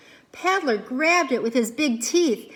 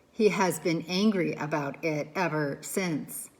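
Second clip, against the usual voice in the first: calm robot voice; 5 semitones lower than usual. Acted. Robot Roz voice held.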